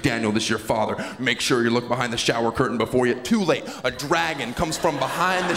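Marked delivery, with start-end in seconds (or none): 0.0-3.1 lightly voiced stern dad; a hologram dad warning his son, slightly lower; a hint of a father hologram. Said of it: "a hologram of my dad pops up and he's like".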